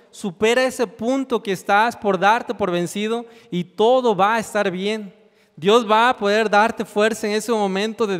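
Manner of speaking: earnest preaching, pleading with the listener; fervent preaching. Acted. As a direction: press the message home with conviction, slowing on the key lines. Appeal to the congregation. (predicación fervorosa y suplicante)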